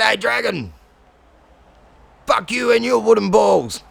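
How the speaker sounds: cocky challenge; defiant taunt. Acted. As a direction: throw the insult up at the dragon. Cat insults dragon in story.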